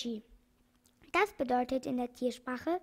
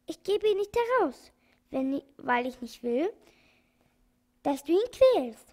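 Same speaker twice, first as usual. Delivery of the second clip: firm refusal, rising louder toward the end; very energetic; 3 semitones higher, 6 dB louder than usual. Acted. The doctor refuses the organ-grinder, getting louder and firmer. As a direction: stand your ground, louder each phrase. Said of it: "sagt der Doktor sehr energisch".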